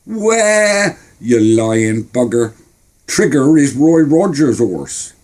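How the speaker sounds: put-on high, scornful boy; indignant kid. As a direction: catch him lying. Boy calls out lie.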